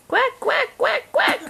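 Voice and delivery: lightly voiced duck calls read to a child; duck quacks. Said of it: "Mother Duck said".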